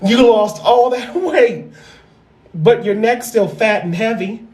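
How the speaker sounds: laughing quote. Retold or imitated. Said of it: "I kept thinking".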